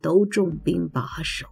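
even, subdued godfather recounting his escape; a hint of the boastful godfather, voice kept level; lightly voiced godfather. Godfather telling his goddaughter of the ghost fight, lightly voiced, subdued.

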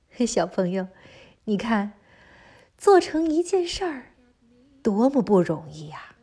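put-on gentle aside to a small child; reading to a toddler. A narrator's reading. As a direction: coax the little listener along.

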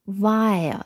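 "wire" said as one gliding diphthong; diphthong demo. Shown as a demonstration. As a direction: model the double vowel in "wire". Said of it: "它是一个双元音".

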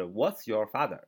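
contracted What's, run together quickly; read it fast. Shown as a demonstration. Teacher demonstrating the fast, contracted reading. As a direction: rattle off "What's your father?" in one quick breath. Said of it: "读快点读就是".

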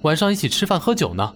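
easy, unbroken telling; fluent, self-absorbed chatter. Acted. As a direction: chatter on without noticing the listener. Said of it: "我说话流畅了许多". (自顾自流畅地说着)

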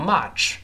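"much" wrongly said with a wide-open "ah", like "match" or "march"; common mispronunciation. Shown as a demonstration. Teacher imitates learners' mistake, "much" with too open a vowel. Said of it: "好多人容易把它读成much".

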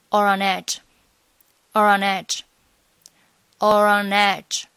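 "or on edge" run together as one smooth word; linked or on edge. Shown as a demonstration. Teacher drilling the linked phrase "or on edge". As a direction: flow "or on edge" with no breaks. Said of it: "三个单词可以连读成".

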